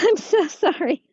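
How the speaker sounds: apologizing through giggles; laughing. Real, not acted. Laughs at mixed-up breath cues.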